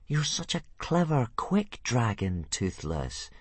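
lightly coaxing, slowing on quick dragon; butter up the dragon; mild flattery, softening at the end; flattering. Acted. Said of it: "Hiccup flattered".

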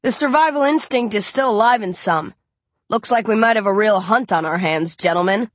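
put-on a light American accent, cool and assured. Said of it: "speaks in an American accent".

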